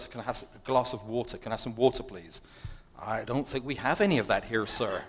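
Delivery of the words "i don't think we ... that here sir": mock American cabin-crew voice; lightly put-on American accent; imitated American stewardess. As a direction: play an American stewardess turning him down. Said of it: "stewardess says".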